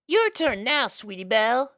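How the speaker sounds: high, playful filly voice; Apple Bloom nudging. Acted. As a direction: egg her friend on. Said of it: "said Apple Bloom".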